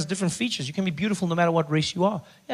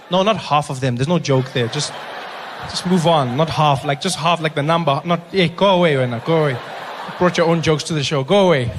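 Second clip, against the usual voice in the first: mock shooing; 6 dB louder than usual. Shooing audience off the joke.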